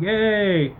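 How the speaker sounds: light, put-on celebration; mock cheer. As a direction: toss off a make-believe kid's cheer. Mock cheer at getting new dog.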